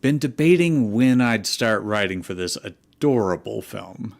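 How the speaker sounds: put-on high, loud, bubbly teen fanfic writer; gushing fan-author voice. Host voicing the fic author's note for the chat, high and loud with giggles. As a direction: read it like a giddy fan defending her movie.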